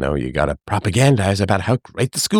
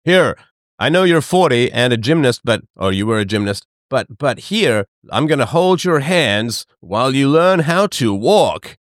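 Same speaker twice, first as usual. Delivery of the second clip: mock father; 3 semitones higher than usual. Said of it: "sitting you down and saying".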